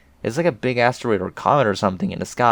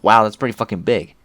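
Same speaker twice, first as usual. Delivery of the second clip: mock reaction; 7 dB louder than usual. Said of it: "It's always just like".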